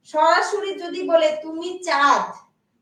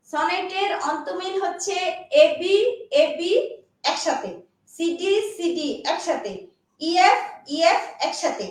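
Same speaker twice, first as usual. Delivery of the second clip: speaking slowly. Shown as a demonstration. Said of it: "আস্তে আস্তে বলি".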